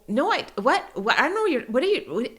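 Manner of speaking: high, stammering feigned confusion; flustered denial. Retold or imitated. Mom denies the bad word to her son, flustered stammer. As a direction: play dumb with broken-off protests.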